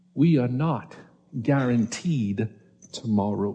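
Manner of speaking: slow, soft, deliberate, word-by-word delivery. Speaker repeating a point to the audience, saying it a little slower. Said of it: "i'll say it a little slower".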